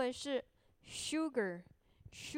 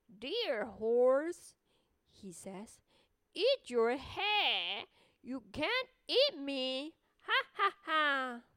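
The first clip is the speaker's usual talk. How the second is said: slow, louder teasing little voice; gingerbread man voice; 5 dB louder, slower than usual. Acted. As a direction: taunt the horse cheekily. Gingerbread man teases horse.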